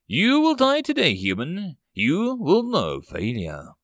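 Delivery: a hint of a gloating war machine; mocking Titan. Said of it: "a deep voice of the Titan mocking him".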